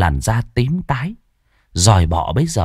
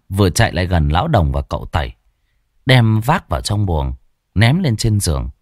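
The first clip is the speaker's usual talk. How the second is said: plain reading voice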